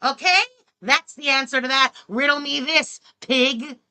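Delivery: heated insulting tirade; angry rant. Real, not acted. Streamer ranting angrily at a critic. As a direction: spit the insults out at her.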